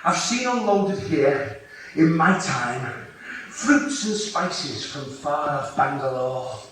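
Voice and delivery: put-on slow, grand old man's telling; slow old docker. Old docker telling the young lad, slow and grand. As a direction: savour each word like a proud old docker. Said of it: "He said".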